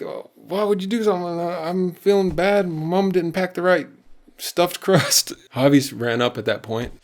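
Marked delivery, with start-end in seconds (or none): 0.0-5.3 hammed-up kid complaining about a bad day; upset kid. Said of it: "Terry did not like that".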